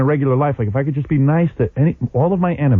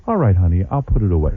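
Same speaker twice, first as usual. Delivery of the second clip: lightly voiced meek Stepford wife; sweet and obedient, a hint of a Stepford wife; 6 semitones lower than usual. Husband to wife, mildly sugary Stepford wife voice. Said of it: "I was talking like a Stepford wife".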